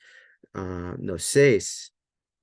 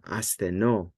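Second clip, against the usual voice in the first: "astheno" with the stress on its final "no"; stress on last syllable; slower than usual. Shown as a demonstration. Teacher demonstrating a contract verb, last-syllable stress on "astheno". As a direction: land the accent on the "no" ending "astheno". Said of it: "accent is on the last syllable".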